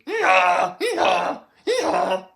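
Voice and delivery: loud, high braying hee-haw; a donkey popping over the hedges, loud bray. A narrator's reading. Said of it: "the donkey pops over the hedges and goes".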